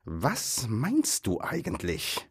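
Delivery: slow, drawn-out troll question; threatening troll. A narrator's reading. Bert threatening the captured hobbit, slow menace. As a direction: stretch it out with mild menace. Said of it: "drohte Bert".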